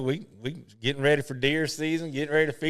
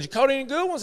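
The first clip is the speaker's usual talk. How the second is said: higher imitated friendly question; Arnold Palmer; 12 semitones higher, 4 dB louder than usual. Palmer asking Boo about his catch, higher imitated voice. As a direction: ask it keenly, like an old fishing buddy. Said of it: "He goes".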